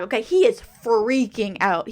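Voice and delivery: usual speaking voice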